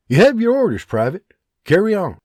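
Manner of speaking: lightly voiced Scottish sergeant giving orders; commanding sergeant. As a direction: give crisp orders. John dismisses.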